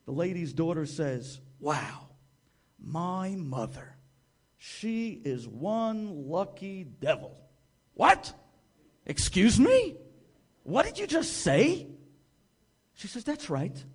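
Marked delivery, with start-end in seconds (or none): 1.6-7.4 estranged daughter musing quietly on her mother's luck; slow bitter remark. Retold or imitated. 7.9-11.9 high, loud, startled; shocked disbelief. Retold or imitated. Adam shocked by her reply.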